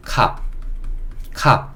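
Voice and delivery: 캅 as a short "kahp", said twice with a gap; demonstrated pronunciation. Shown as a demonstration. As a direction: model 캅 as an isolated word for learners. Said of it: "이렇게 읽을 수 있고". (캅을 한 음절로 끊어 시범 발음)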